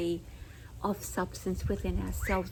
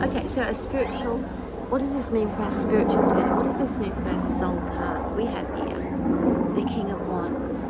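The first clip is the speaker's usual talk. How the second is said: raised voice, still over the noise; yelling over helicopter; 6 dB louder than usual. Real, not acted. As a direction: keep projecting over the helicopter. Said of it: "Sorry about the helicopter".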